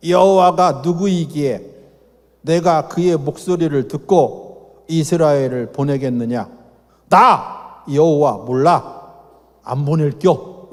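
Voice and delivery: slow, dismissive Pharaoh drawling; Pharaoh's reply. Acted. Pharaoh waving off Moses and Aaron, slow and dismissive. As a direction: brush the Hebrew God off, slow and lazy. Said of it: "바로가 이르되".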